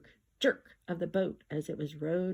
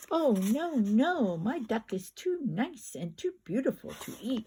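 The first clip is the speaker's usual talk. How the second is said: put-on boy's cry; 3 semitones higher than usual. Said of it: "cried the boy".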